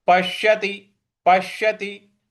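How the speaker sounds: पश्यति with a held, pushed श; stress on half श. Shown as a demonstration. Teacher demonstrating the stroke, stressed श in पश्यति. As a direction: press into the श of पश्यति on a level tone. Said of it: "पर हमें बल लगाना है".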